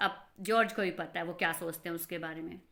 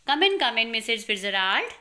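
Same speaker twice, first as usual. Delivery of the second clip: loud welcome; 5 dB louder than usual. Acted. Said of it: "Having the soul of Mrs Pearson".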